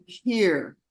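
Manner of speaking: calm, level "Here," offered gently with care; gentle offering. Shown as a demonstration. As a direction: hand it over kindly with "Here,". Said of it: "I always give somebody something like".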